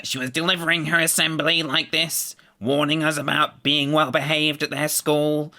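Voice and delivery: high, nasal teacher assembly voice; nasal deputy head voice. Retold or imitated. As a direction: do the small deputy head's strong nasal voice. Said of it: "very strong nasal voice".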